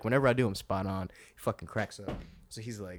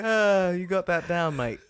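put-on British accent; 9 semitones higher, 7 dB louder, slower than usual. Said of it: "he's like".

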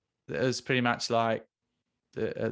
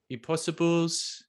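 put-on slow, raised South African accent; 5 semitones higher, slower than usual. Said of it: "Is that a good South African accent".

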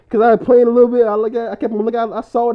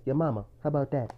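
quiet imitation of albino dude; 7 semitones lower, 11 dB quieter than usual. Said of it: "just say this".

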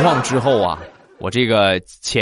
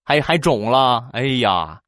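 fussy doctor; 3 semitones higher than usual. Retold or imitated. Doctor voiced fussing over face.

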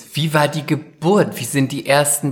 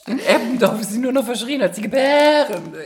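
laughing; 9 semitones higher than usual. Real, not acted. Teasing the new mother, laughing.

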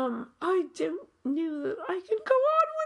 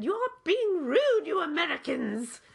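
scolding British lady. Retold or imitated. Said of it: "stood up ... and said".

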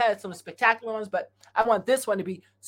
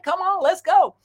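hyped up; 10 semitones higher, 5 dB louder than usual. Real, not acted. Hyping up the audience.

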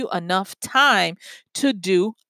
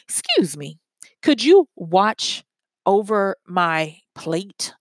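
polite request; slower than usual. Shown as a demonstration. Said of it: "your favor should be something like".

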